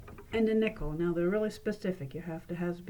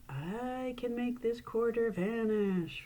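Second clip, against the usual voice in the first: slow, drawn-out mysterious announcement; weird magician voice; 3 semitones higher, much slower than usual. Shown as a demonstration. Announcing the vanishing trick to the audience, slow and eerie. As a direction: draw it out like a stage mystic. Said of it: "You don't have to use that weird voice".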